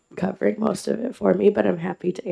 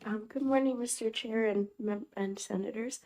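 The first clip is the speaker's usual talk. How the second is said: hoarse voice with a cold; 4 semitones higher, 11 dB quieter than usual. Real, not acted. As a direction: talk through a sore, hoarse throat. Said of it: "excuse my voice. I'm recovering from a cold".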